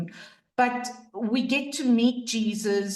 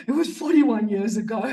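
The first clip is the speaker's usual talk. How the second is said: laughing; faster than usual. Real, not acted. Realizing her own mistake, laughing.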